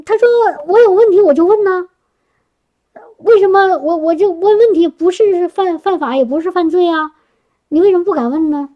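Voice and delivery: coworker's lively push. Retold or imitated.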